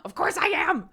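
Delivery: fierce exasperated whisper; whispered frustration. Pretend. Mom pretends to seethe at her stalling daughter, whispered frustration. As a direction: hiss it through a held-back temper. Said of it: "immediate reaction wants to be like".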